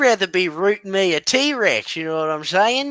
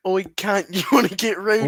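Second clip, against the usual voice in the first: mock Australian. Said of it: "women do love accents".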